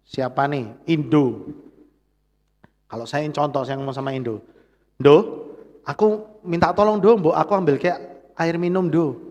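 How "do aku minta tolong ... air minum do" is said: gentle request. Shown as a demonstration. Pastor demonstrating a polite request to Indo, gently. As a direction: ask kindly, no pressure at all. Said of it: "intonasi saya lebih lembut".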